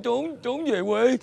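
slow, halting tearful words; tearful confession. Acted. Father confides in his neighbour, tearful. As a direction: drag the words out through tears.

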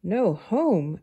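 exclaiming. Acted. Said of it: "exclaimed Ant".

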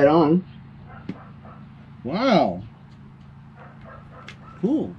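muffled behind face mask; speaking inside full respirator; through a gas mask. Real, not acted. Seen 0: full face respirator mask worn over face while speaking.

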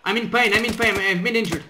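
loud wounded cry; pained shout. Acted. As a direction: call out hurt and urgent. Wounded soldier calling out.

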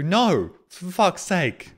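sharp no, then a slow, dragged-out curse; fed up, let it out loud; exasperated refusal. Real, not acted. Rejecting high heels donation request.

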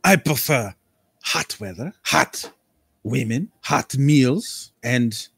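theatrical, drawn-out aristocrat; eccentric nobleman voice. Acted. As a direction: savour every word like a flamboyant lord. GM plays Lord Cambria.

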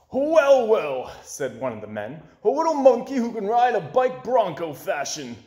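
brighter, lifted voice for the circus director; lightly voiced hearty showman; cheerful showman. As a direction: play the jolly show director greeting the monkey. Director greets the monkey.

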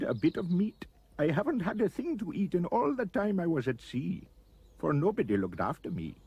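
high, plaintive creature voice; soft pleading anteater. A narrator's reading. Starving anteater begs Roy for a little food, pleading. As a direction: plead weakly, pitched high. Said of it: "looked at Roy and softly said".

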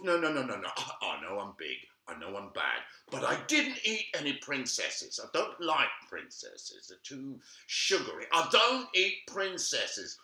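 a hint of a gruff big wolf. Wolf pleads his case.

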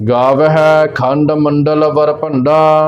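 slow, measured Gurbani recitation; slow devotional reading with long final vowels; scripture recitation. Shown as a demonstration. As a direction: recite line by line, stretching the line endings. Recites scripture between explanations.

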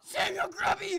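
shouted full name; calling out. Real, not acted. Player calling out to Sam, shouted name. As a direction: shout the name at your opponent.

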